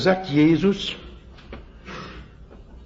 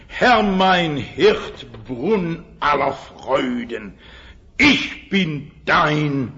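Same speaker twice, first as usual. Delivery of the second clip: langsam, getragen rezitiert; feierlicher Liedvers; slower than usual. Acted. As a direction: ein Kirchenlied feierlich vortragen. Recites Easter hymn verse. (Liedstrophe, langsam und getragen gesprochen)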